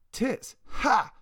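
high, scornful burst of a laugh. A narrator's reading. Drunk friend mocks the skinhead's insult, high scornful laugh. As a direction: scoff at him, mocking. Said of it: "S H laughed".

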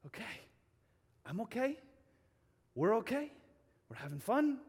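settling down, one short phrase at a time; relaxed self-reassurance. Acted. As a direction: talk yourself into calm, with long pauses. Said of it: "deep state of relaxation".

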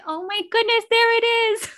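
high, loud burst of delight; excited exclamation. Retold or imitated. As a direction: squeal it as a gleeful discovery. Retold excited reaction to accent.

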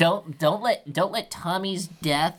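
pleading. Acted. Son pleads with mother.

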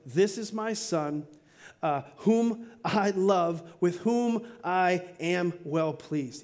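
slow, measured words spaced out; "This is my son" given very slowly with weight; a heavenly father speaking slowly and solemnly; solemn voice of God. Retold or imitated. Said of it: "God speaks and says".

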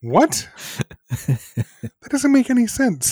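slow, high, laughing through the words; can't believe it, laughing; laughing disbelief. Real, not acted. Laughing with cohost at the plot, slow disbelief.

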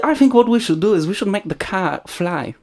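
put-on Thai accent. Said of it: "That's pretty good".

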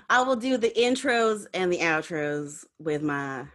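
lightly voiced cowboy. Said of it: "cowboy voice".

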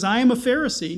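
"am" leaned on, set against "was"; stress on AM. Shown as a demonstration. Preacher stressing that Paul says "am" not "was". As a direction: press the word "am" as the point. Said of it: "not, "I was a Pharisee".

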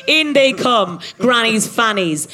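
lightly voiced maniacal villain; a hint of gleeful villain relish; mad scientist. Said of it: "laughing maniacally".

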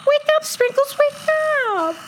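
gasp, then high drawn-out wail; dismayed pleading. Acted. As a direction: whine in cartoon dismay to rouse a friend. Pleading with friend who dozed off.

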